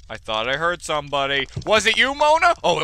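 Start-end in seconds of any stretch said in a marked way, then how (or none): 1.7-2.5 playful questioning. Pretend. Addresses painting in game.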